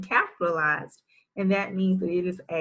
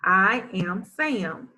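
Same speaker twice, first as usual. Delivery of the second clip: slow decoding read; slower than usual. Shown as a demonstration. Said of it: "Let's read this one".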